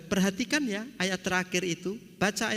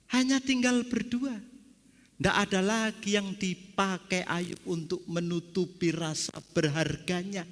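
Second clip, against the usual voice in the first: ordinary talk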